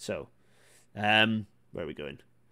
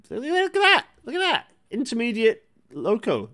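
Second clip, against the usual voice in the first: very high, bright squeal of joy; excited; 11 semitones higher, 4 dB louder than usual. Real, not acted. Host sees another loco on the stream, squealing excitedly. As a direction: point and shriek with delight.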